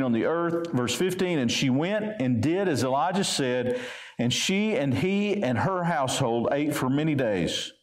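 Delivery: measured, even Bible reading voice; a gently formal reading from the pulpit; scripture reading. Acted. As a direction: read the passage with steady weight. Preacher reads scripture aloud.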